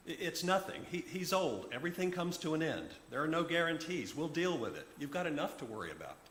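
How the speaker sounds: hint of a flustered woman brushing it off; flustered Liz. Voices flustered Liz on phone.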